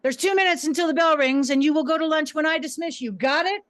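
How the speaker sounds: firm teacher addressing the class; commanding classroom teacher. Retold or imitated. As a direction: call the boys to order.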